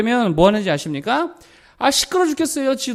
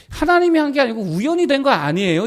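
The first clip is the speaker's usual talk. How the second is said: hammed-up "우연히 된 거 아니에요?", raised in mock disbelief; mock indignant doubter; 5 semitones higher than usual. Pastor mocking a churchgoer who calls answered prayer chance, higher mock voice. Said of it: "이러고 있다라고 하는 거예요".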